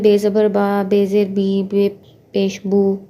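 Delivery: spell-out बे ज़बर बा, बे ज़ेर बी, बे पेश बू with the letter named "be"; aa, ee, oo endings in बा, बी, बू; Urdu vowel reading. Shown as a demonstration. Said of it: "Urdu में हम पढ़ते हैं". (बे से हिज्जे, उर्दू अंदाज़ में बा, बी, बू)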